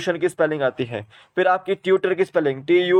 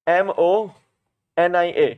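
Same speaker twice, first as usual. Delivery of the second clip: slow letter-by-letter spelling; slower than usual. Shown as a demonstration. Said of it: "pneumonia की spelling".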